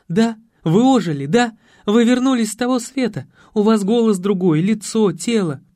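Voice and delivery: high, loud breathless excitement; overjoyed. A narrator's reading. Nastya overjoyed that her coach came back, high and excited. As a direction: gush it out in disbelieving joy. Настя в восторге узнаёт тренера.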